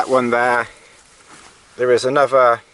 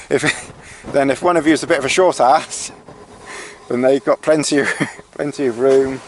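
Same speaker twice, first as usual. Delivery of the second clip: laughing; faster than usual. Real, not acted. Amused at own short-ass remark.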